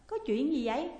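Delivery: asking loudly. A narrator's reading. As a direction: call out what happened. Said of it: "Họ hỏi lớn". (hỏi lớn hốt hoảng)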